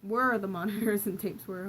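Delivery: laughing through the reread of a line; reading with a real laugh. Real, not acted. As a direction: chuckle while rereading.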